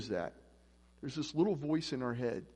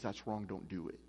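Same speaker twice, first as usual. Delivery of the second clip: low, soft inner warning; understated inner voice saying no; voice of conscience; 7 semitones lower, 8 dB quieter than usual. Retold or imitated. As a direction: drop pitch and volume for a quiet admonition. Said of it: "then my conscience says".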